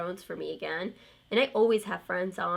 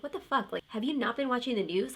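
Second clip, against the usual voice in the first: higher-pitched retold incredulity; exasperated disbelief; 4 semitones higher than usual. Reacting to husband's story of a screaming shopper, mildly exasperated. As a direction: replay your baffled reaction without raising volume.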